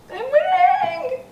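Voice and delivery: high shrieking victory cry; excited squeal. Real, not acted. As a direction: squeal with glee. Celebrating win.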